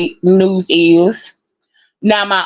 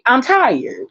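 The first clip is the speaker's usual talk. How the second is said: half-laughing weary whine; 5 semitones higher than usual. Real, not acted. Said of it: "I have to laugh to keep from crying".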